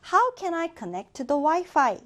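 each word of How can I connect to the Wi-Fi said very slowly and clearly; very slow model sentence. Shown as a demonstration. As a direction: read it word by word for learners. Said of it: "teacher models sentence".

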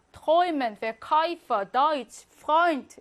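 Träumen, Verkäufer, Deutsch, Freund each with a clear "oy"; oi diphthong. Shown as a demonstration. Teacher lists examples of 오이, Träumen to Freund said with "oy". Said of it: "이렇게 오이로 하는 거".

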